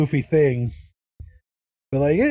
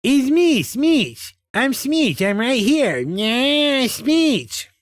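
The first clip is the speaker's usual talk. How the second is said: much higher cartoon voice pushed up into the nose; Smeech voice; 10 semitones higher, much slower than usual. Same voice moved into the nose, a high squeaky Smeech. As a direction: squeak it out of the upper nose like a tiny cartoon critter. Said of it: "into the upper part of my nose".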